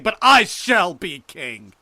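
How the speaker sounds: high, slow, thunderous proclamation; very loud, drawn-out mad vow; climactic shout. A narrator's reading.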